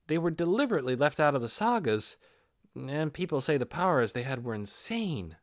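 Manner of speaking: a hint of a friendly storyteller; lightly voiced Lacrout telling Nabe about the heroes; lightly voiced explanation.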